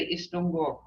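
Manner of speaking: gentle worried hello; concerned tone. Shown as a demonstration. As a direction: say it with quiet concern. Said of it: "Hear my tone?".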